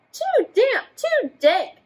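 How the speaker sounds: high squeaky little mouse; mouse squeak. Acted. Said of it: "The mouse squeaks".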